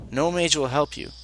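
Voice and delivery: mage hit firmly in the line; stress on mage. Acted. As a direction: lean on the word mage. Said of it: "he is stressing the word mage".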